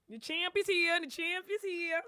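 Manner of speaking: hyped guest announcement; announcer hype. Real, not acted. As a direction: call it out like a ring announcer.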